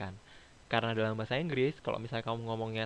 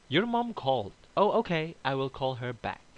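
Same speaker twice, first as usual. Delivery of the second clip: acted little dialogue; 3 semitones higher, slower than usual. Shown as a demonstration. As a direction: act out both sides of a short chat. Teacher acts out phone dialogue. (dialog pura-pura, diucapkan pelan di akhir)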